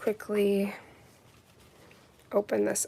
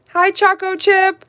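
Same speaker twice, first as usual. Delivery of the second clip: higher, louder, slow cooing hello; pet greeting; 10 semitones higher, 11 dB louder than usual. Real, not acted. Greeting her pet Choco Chip with a high coo. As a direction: coo at the little dog.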